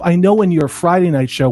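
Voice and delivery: ordinary talk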